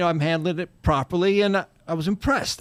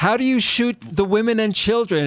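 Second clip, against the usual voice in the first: usual speaking voice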